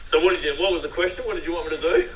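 a touch of American twang; American accent. Acted. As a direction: slip into a mock American voice. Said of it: "in the best American accent you've got".

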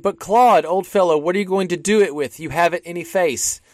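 imitating Whale. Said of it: "Whale said".

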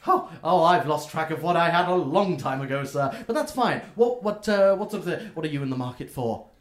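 a flustered little gnome seller; gnome shopkeeper. Acted. Gnome shopkeeper chatting with the halfling customer, chirpy and high.

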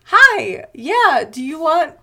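high, loud, eager candy offer; sweet creepy coaxing. Retold or imitated.

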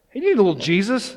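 quick, high-pitched pitch to a stranger; mock chirpy evangelizing. Walking up to a random stranger, mock eager. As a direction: pop the question up high, hammed-up.

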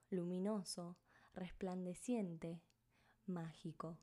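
measured meditation voice with long pauses; guided meditation. Acted. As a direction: guide them gently, phrase by phrase, leaving space. (voz de meditación guiada, pausada)

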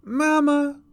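high, loud wail for mother; crying little child. A narrator's reading. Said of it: "cried the little voice".

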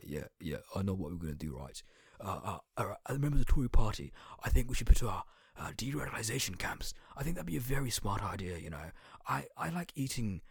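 mock-proud politician bragging; Tory politician impression. Comedian mocking a Tory politician, hammed-up pompous voice. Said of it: "That's my Tory impression".

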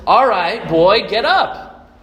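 loud, slow firm command. Acted. Jesus commanding the dead young man, loud and slow. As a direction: order the dead boy up with authority. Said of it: "maybe I need to try again".

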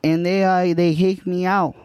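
light put-on Spanish accent. Improv scene as Juan.

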